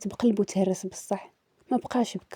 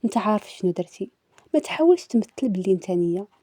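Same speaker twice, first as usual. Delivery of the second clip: cool, restrained accusation; understated coldness. Retold or imitated. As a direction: retell it with a touch of icy indifference. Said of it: "بواحد البرود وكنقول ليه". (ببرود خفيف)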